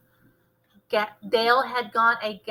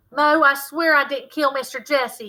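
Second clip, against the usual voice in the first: voice cracking; 4 semitones higher, 4 dB louder than usual. Acted. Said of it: "his voice cracking".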